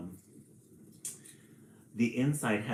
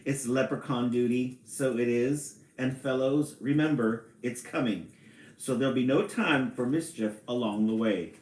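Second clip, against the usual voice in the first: louder leprechaun with a light Irish lilt; attempted Irish accent; 2 semitones higher, 5 dB louder than usual. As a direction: instruct the fellows in playful, light Irish. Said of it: "Read it in an Irish accent".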